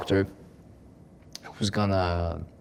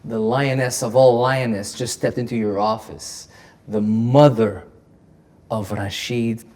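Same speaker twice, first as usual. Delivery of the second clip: mock commanding; slower than usual. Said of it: "like she was ordering me to say".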